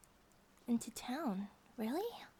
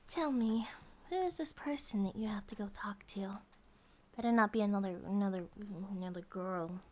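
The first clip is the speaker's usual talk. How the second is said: low, pressing jealous tone; jealous questioning; 4 semitones lower than usual. Acted. Girlfriend jealously questioning who he is meeting. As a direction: press him, a little jealous.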